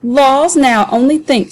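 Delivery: high, mocking dialect voice, hamming it up; jeering Sambo. Sambo mocking the men to be sold, high and jeering.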